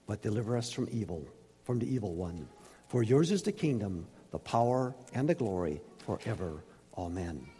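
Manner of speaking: measured, solemn reading from the pulpit; scripture reading. Acted. Preacher reading Matthew six to the congregation, solemn and measured. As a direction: read the passage aloud like holy words, rising on the warnings.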